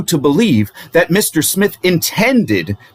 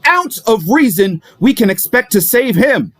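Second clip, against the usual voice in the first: impassioned oratory; 7 semitones higher than usual. Acted. Defense lawyer telling the jury the opponent is going under, impassioned. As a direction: build steadily higher toward the verdict on your opponent. Closing argument builds to climax.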